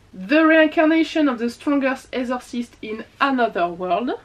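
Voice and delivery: English titles in a heavy French accent, read carefully. Real, not acted. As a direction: stumble through the English like a French reader. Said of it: "désolée pour mon accent anglais pourri". (titres anglais avec un fort accent français)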